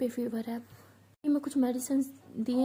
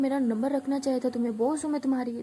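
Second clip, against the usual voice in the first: mildly raised boss's telling-off; pulling rank in a mock scolding; retold scolding; 4 dB louder than usual. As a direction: imitate a boss scolding, a bit forcefully. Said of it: "तो ऐसे चिल्ला रही होती है".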